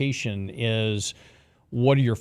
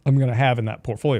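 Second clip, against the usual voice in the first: talking through the hiccups; hiccuping between words. Real, not acted. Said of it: "Excuse me, got the hiccups".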